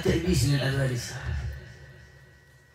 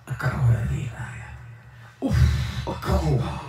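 mock devil; faster than usual. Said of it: "قال".

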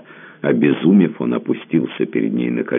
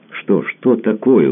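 high, louder, slow alarmed cry; 9 semitones higher, 4 dB louder, slower than usual. A narrator's reading. Osip alarmed by Tamara's hesitation, anxious exclaim. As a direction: burst out in worry. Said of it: "тревожно воскликнул".

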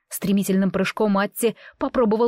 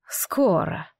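eerie disembodied whisper; a bodiless voice breathing one word; eldritch whisper. A narrator's reading. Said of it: "прошептал всё тот же бестелесный голос".

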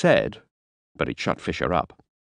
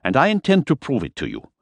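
higher, a touch defensive; 9 semitones higher than usual. Acted. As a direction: stand up for your cook, a bit piqued. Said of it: "said Fisher defensively".

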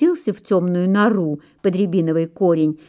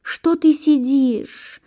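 high, slow groaning question; moaning pine; 6 semitones higher, slower than usual. A narrator's reading. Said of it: "стонет сосна".

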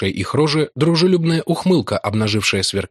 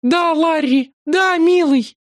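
much higher, bright eager agreement; eager cry; 3 dB louder, slower than usual. A narrator's reading. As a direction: agree joyfully. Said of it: "вскричала служительница".

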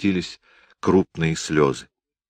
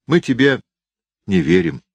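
put-on high, loud boy's voice; a defiant little boy speaking up; child voice; 9 semitones higher, 4 dB louder than usual. Boy tells aunt Liza, child voice.

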